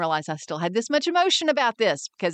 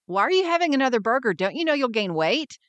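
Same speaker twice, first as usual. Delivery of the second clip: nagging friend; 4 semitones higher, faster than usual. Retold or imitated. Friend scolding about burger.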